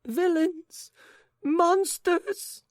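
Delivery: very high, loud outraged cries; lady crying out. A narrator's reading. Lady sinking on the sofa, very high outraged cries. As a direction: hurl the insults shrilly. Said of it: "cried the lady".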